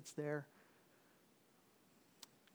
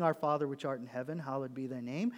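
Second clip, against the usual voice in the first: empty repetition of a memorized prayer; rote recital. Shown as a demonstration. Preacher showing the prayer to avoid, rote and flat. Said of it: "We're not saying".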